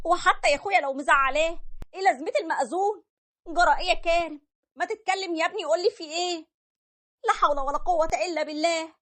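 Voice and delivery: high, pleading mother voice, upset and bewildered; distressed mother. Acted. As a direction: voice the worried mother begging her son to explain.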